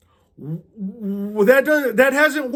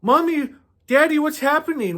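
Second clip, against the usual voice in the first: put-on a child's voice pitched higher, puzzled; lightly voiced little kid; 5 semitones higher than usual. Preacher voices Achan's child asking his parents, higher innocent voice. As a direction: ask like a bewildered small child.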